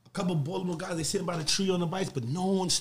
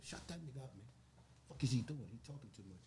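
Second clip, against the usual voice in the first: muttered complaint; 4 semitones lower, 16 dB quieter than usual. Retold or imitated. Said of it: "shut Ben the fuck up".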